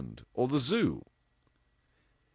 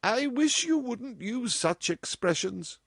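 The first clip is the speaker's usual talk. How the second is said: gentle protest. A narrator's reading. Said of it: "protested Missus West gently".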